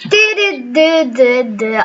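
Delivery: shivering with cold; chattering teeth from the cold. Real, not acted. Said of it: "ale zimno mi, trzęsę się".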